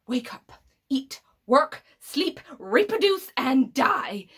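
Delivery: mounting, punched-out list, word by word; bitter listing. Acted. Villain scorning human routine to Eleven, bitterly emphatic. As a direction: hit each item separately, rising in force.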